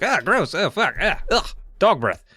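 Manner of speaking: high-pitched mock revulsion; disgusted gnomes. Gnomes being licked by the dog, mock disgust. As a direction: squirm in hammed-up disgust. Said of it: "the gnomes are like".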